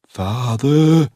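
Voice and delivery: loud, high shout; Geoffrey shouting for his father in sudden terror. A narrator's reading. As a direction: yell for him in terror. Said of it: "he shouted".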